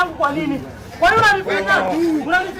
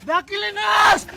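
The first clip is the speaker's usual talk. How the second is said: shouting; slower than usual. Real, not acted. Being crushed, crying out.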